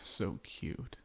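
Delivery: voiceless fond whisper. Acted. Vampire husband whispering to his wife about her pity for a spider. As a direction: whisper it like a private tease.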